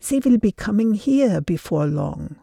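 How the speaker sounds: urgent hushed warning; hushed suspense. Acted. Liesel warns of the Gestapo.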